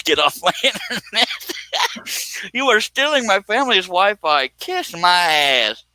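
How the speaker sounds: high-pitched, laughing mock outrage; hammed-up indignant warning, tickled; mock threat. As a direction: squeal the threat, dragging out the last words. Quoting the threat while cracking up.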